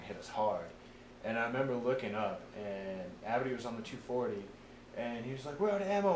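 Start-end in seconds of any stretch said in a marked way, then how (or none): 5.6-6.1 retold alarm. Gunner retold during a firefight.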